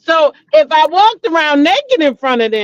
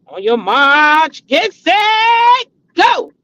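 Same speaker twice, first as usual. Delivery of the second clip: race start call; 4 semitones higher, much slower than usual. Retold or imitated.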